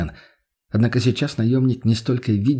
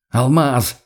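shouting; 4 dB louder than usual. Acted. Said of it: "докричаться".

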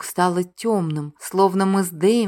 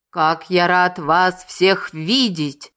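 slow, mock-cheerful greeting; feigned joy; slower than usual. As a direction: overplay the delight. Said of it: "произнёс он с наигранной радостью".

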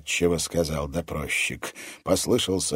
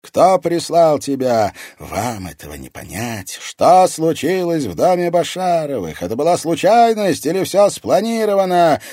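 loud, high menacing threat; 10 semitones higher, 10 dB louder than usual. A narrator's reading. Interrogator threatening the mocking captive woman. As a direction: scare her into talking.

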